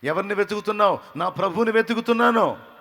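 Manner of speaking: Jesus and Mary calling out; impassioned exchange. Acted. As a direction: cry out both lines. Acted dialogue, raised voices.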